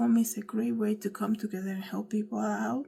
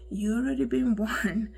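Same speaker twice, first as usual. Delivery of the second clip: warning with a small real laugh; slight laugh. Real, not acted. Vlogger warns viewers and herself, slightly laughing. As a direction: let a little chuckle into the warning. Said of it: "I'm laughing because it's like".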